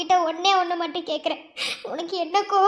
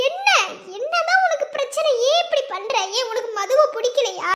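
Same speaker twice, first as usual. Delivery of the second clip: angry confrontation; 3 semitones higher than usual. Acted. Friend angrily confronting Preethi over the couple. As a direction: demand answers, voice climbing.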